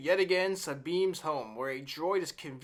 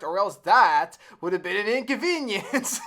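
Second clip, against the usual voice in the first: laughing sarcastic; 3 semitones higher, 4 dB louder than usual. Real, not acted.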